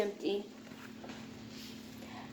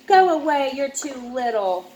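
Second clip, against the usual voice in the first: annoyed brother. Acted. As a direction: push her off, fed up. Brother shoos sister away.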